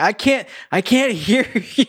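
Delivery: high, strained mock holler; half-laughing call over a racket; calling over noise. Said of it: "it's super loud".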